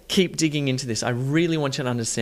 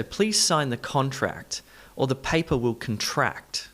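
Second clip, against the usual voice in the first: first "contract" stressed on CON, last "contract" on TRACT; shifted stress. Shown as a demonstration. Teacher says it first for learners, shifting stress. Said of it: "doing some stress shifting first".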